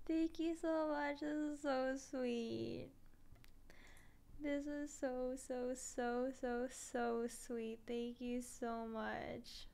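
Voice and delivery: slow, soft and moved. Real, not acted. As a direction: let it melt away slowly. Moved by sweet messages.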